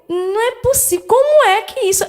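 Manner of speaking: can't accept what she's hearing; retold disbelief. Mother on the phone about the reappeared phone, stunned and incredulous.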